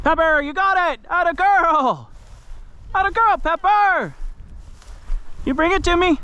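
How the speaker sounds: high excited praise for the dog; squeaky praising a dog. Real, not acted.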